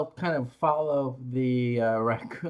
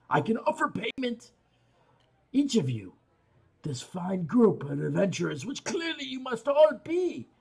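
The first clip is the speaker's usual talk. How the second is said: speaking Dwarvish; 3 semitones higher than usual. Acted. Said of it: "switching over to Dwarvish".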